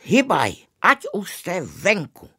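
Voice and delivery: put-on an usher throwing boys out, shrieking; high-pitched yell. Angry usher throwing the boys out, high loud yell. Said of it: "pravil velice vysokým hlasem".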